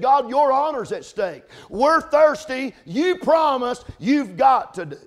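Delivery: loud, slow, insistent prayer; preacher voicing the praying men, slow and loud; pleading challenge to God. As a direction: hold God to His promise.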